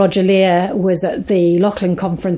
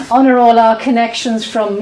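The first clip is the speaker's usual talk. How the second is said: repeated louder, for the microphone; said again louder; 3 semitones higher, 5 dB louder than usual. Real, not acted. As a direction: say it again, louder, so the mic catches it. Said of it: "Take the microphone and say that all again".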